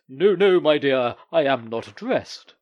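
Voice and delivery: loud, husky call through the door. Acted. The comedian calling to an actress at his door, husky. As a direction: bark it back, husky and quick. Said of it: "the comedian's husky voice".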